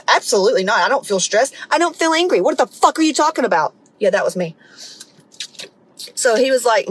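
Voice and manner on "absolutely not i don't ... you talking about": mock indignation, pitch climbing as it builds; retold defensive outburst; indignant denial. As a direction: act out someone insisting they're fine, getting more worked up. Acts out own indignant denial of stress.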